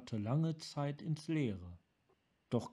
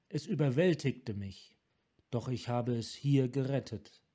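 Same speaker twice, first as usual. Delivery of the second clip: a broken man forcing the words out; tormented Sarkan; 4 dB louder than usual. Acted.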